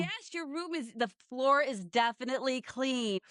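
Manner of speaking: amused praise. Retold or imitated. Parents seeing the emptied room, stunned but praising. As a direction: pretend to be impressed by the mess. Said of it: "They're like".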